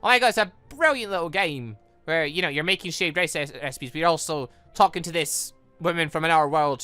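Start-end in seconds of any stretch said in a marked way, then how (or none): none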